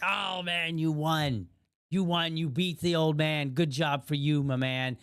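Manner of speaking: retold cheer for a young winner; congratulating the winner. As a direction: hail the kid who beat you. Congratulating boy after staged loss.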